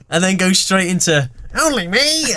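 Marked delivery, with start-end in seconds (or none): 1.6-2.3 put-on high, hammy Mancunian accent; badly faked Mancunian cheer. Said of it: "some weird Mancunian voice".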